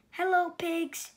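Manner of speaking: high cheerful hello; cheery greeting. Acted. Duck greeting Horse with a high cheerful hello. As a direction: wave and call hello. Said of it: "said Duck".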